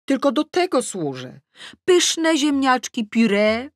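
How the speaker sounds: loud, high, mock-sweet sarcasm; sarcastic complaint. Mother grumbling about endless cooking, sarcastic and loud. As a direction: lay the sarcasm on thick.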